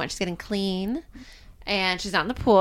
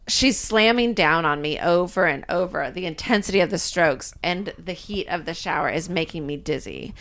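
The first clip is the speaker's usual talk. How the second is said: low, even read-aloud voice; lowered storytelling voice, softening at the end; erotic novel narration; 4 semitones lower than usual. A narrator's reading. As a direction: read it out as steamy first-person narration. Reads the book aloud.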